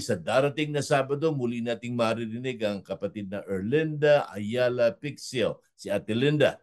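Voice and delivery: upbeat radio host teaser for next week; host plugging next Saturday's guest, announcer style; radio announcement. Acted. Host announces next week's episode.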